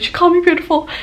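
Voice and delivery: high-pitched excited squeal of words; imitating a giddy fangirl friend. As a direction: gush like an elated fan retelling it. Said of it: "fangirling together".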